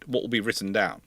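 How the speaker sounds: ordinary delivery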